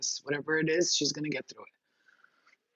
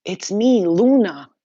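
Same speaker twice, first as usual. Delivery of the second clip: retold announcement; 4 semitones higher, 10 dB louder, slower than usual. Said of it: "she goes".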